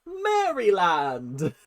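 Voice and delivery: Maryland drawn out slowly as Mary-land with a rise; British reading. Shown as a demonstration. Amused at the state name, slow and rising. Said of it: "That's what goes through my head".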